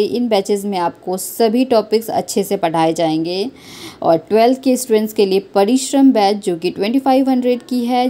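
upbeat sponsor announcement; ad read. Acted. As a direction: sell it like a promo.

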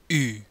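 U as a sound unused in English; Latin Y sound. Shown as a demonstration. Explaining tricky Latin Y, U as a foreign vowel. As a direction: say U as a rounded vowel, not "you". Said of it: "The letter Y is a tricky sound".

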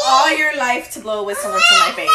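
loud mock scolding; playful shout. Real, not acted. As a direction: call it out loud at him. Mom mock-scolds whistling child.

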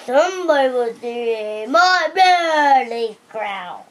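slow, lightly voiced storybook bear; bear's voice. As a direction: slowly draw out the bear's complaint, lightly in character. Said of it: "and the bear says".

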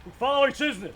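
shouted in unison. Real, not acted. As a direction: call it out together firmly. Soldiers answer at oath ceremony.

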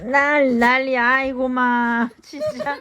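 loud excited exclaiming. Real, not acted. Excited over kids' antics.

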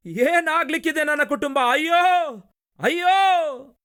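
high wailing cry of despair; anguished wail. Acted. Preacher voicing Abraham wailing over his broken family, high anguished cry. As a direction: cry out ayyo as a broken man. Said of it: "ಹೀಗೆ ಆ ದಿನ ಅಬ್ರಹಾಮನು ಅಳುತ್ತಾನೆ".

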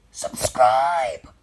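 whispered robotic subscribe. Acted. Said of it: "that was my robot voice".

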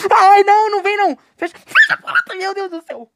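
high frantic cries; panicked shriek. Real, not acted. Gamer shrieking for the door to close. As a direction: shriek in terror.

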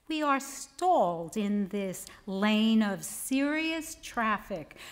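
measured poem recital with deliberate pauses; poetry reading. Acted. Poet reads a just-married poem to an audience, measured poetry reading. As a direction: read it as a poem, letting key words stretch.

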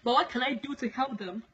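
measured, declaimed warning from God; solemn prophecy. Acted. Preacher relays God's warning to the world, solemn prophecy. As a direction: deliver it as a solemn divine proclamation.

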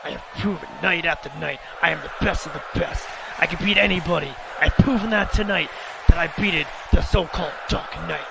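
a hint of a cocky evil clone; lightly voiced bragging wrestler; mildly put-on heel promo voice; boastful villain promo. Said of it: "Make him a deep voice like Hacker".

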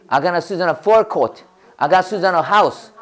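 very slow, each word spaced; slow model sentence. Shown as a demonstration. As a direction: drill it slowly for the class. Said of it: "해봐".

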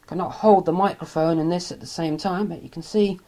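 quiet, off-mic voice; speaking away from the microphone; faint. Real, not acted. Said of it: "Sorry, I'm a bit faint at the moment".

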